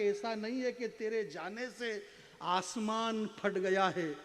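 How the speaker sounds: measured verse with drawn-out endings; poetry recitation. Acted. Poet telling the runaway daughter she was no catastrophe, measured recitation. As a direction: recite gravely, pausing between phrases.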